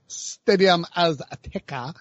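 Spanish-inflected stadium name, drawn out slowly; Spanish accent. Real, not acted. Sports podcaster showing off a stadium name, Spanish accent. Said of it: "Spanish accent".

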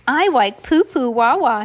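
talking through a mouthful of food; garbled words round a bite; mouth full. Acted. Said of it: "with a mouthful of food".

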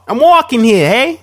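hammed-up New York Italian accent; mock New York accent. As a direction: yell like a New York street guy. Joining the mobster bit.

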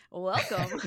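laughing at her own welcome. Real, not acted. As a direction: say it again through a laugh. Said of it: "I kinda sounded like a game show host there".

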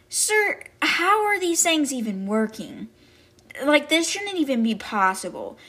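high-pitched, baffled student voice; mock incredulous. Student asking her teacher how these things work, incredulous.

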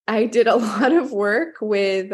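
amused, laugh breaking into the words; real chuckle while starting a story. Real, not acted. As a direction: let a fond little laugh slip in mid-sentence. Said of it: "and I'm laughing because".

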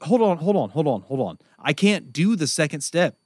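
high, urgent pleading; mock panicked stop; frustrated stuck. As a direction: plead to halt the instructions. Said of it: "And you're like".

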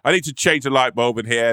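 fussy big deal. Retold or imitated. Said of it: "made such a big deal out of going".

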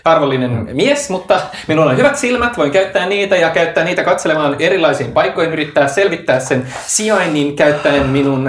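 Ragnar, pompous helper. Acted. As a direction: play a polite but cautious helper. GM plays Ragnar in character. (kohtelias, hieman korkeampi Ragnarin ääni)

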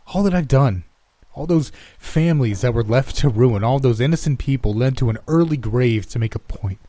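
rising anguish. Acted. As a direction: let the guilt spill out. Remorseful outburst over his crimes.

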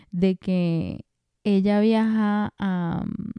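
muy lento, alargando "viaja a"; titubeando. Real, not acted. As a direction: estira las palabras mientras buscas el dato. Duda buscando el dato. ("de que ella viaja a" arrastrado, muy lento, dudando)

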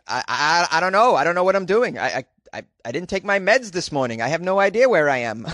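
lightly voiced befuddled elder playing dumb; doddering confused old person. Podcaster mimicking a confused elderly criminal to police. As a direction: play the confused old lady to get off.

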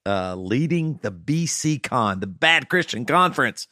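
upbeat sponsor read, punchy; hard sell ad. Acted. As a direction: sell the berries like a radio ad. Host reads sponsor ad.

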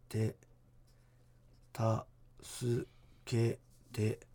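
very slow, halting ghostly plea; creepy ghost voice. Acted. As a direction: stretch each syllable like a ghost. Voicing a ghost's broken words.

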